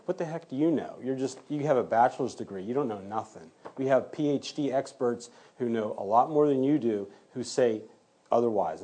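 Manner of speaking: mildly mocking retold cross-examination; getting personal. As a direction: imitate a belittling attorney, lightly. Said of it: "he was getting personal".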